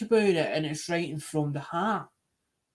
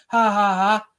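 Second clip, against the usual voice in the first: loud scornful laugh at the seller; jeering ha ha ha; mocking laughter; 3 semitones higher, 8 dB louder, slower than usual. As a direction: laugh him off as daft. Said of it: "And they'll start laughing".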